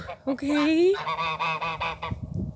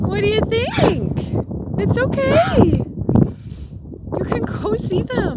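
excited; 6 semitones higher than usual. Real, not acted. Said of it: "You just got really excited".

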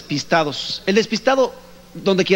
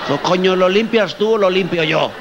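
put-on Spanish gallego accent. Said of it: "Imagínense un gallego".

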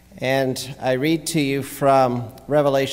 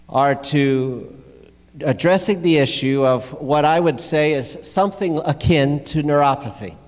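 preaching; 4 semitones higher, 3 dB louder than usual. Real, not acted. Preaches on the passage just read.

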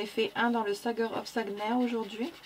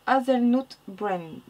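English colour name in a French accent; real French accent on English; 3 dB louder, much slower than usual. Real, not acted. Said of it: "Désolée pour mon accent".

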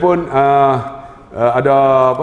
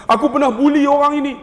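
put-on pleading old man; 8 semitones higher, faster than usual. Old man's confession prayer retold.

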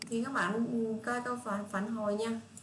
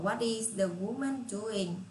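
slow model question; much slower than usual. Shown as a demonstration. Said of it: "Rồi tiếp theo".

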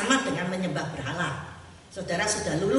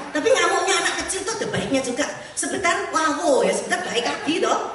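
lively excited; 7 semitones higher, 5 dB louder than usual. Real, not acted. Lively comparison with children.

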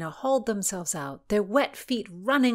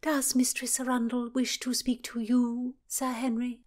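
mocking princess; 6 semitones higher than usual. Cecilia mocking question.

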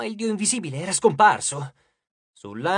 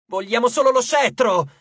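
loud, raised, urgent cry; high, forceful, frustrated yell; shouted; 5 semitones higher, 6 dB louder than usual. A narrator's reading. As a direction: shout the demand at the god. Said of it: "gridò Nico".

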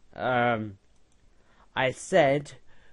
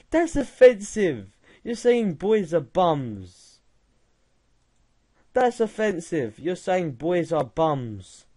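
mock outrage; 2 semitones higher, 3 dB louder than usual.

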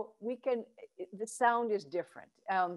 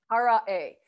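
hara voice vowel; 4 dB louder than usual. Shown as a demonstration. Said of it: "Try A".

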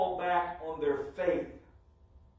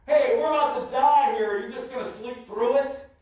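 louder, higher alarmed cry that settles on the second question; panicked wake-up call; 4 semitones higher, 4 dB louder than usual. Acted. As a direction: shake him awake in alarm. Disciples waking sleeping Jesus in panic.

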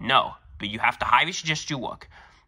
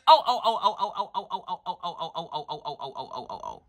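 fading shocked ohs; 2 semitones higher than usual. Acted. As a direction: let the outrage drain away into a whisper. Principal's long shocked oh-chain.

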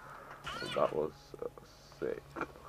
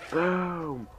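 much higher, much louder triumphant yell; shouted boom; 12 semitones higher, 5 dB louder than usual. Real, not acted. Gamer celebrating a headshot, triumphant shout. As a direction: shout it out like a victory cry.

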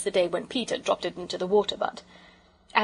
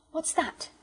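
startled question; 8 semitones higher, 4 dB quieter than usual. Acted. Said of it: "Bobby said".

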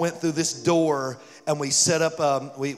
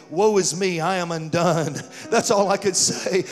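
awestruck proclaiming; 5 semitones higher, 6 dB louder than usual. Retold or imitated. Awestruck prayer in the moment.

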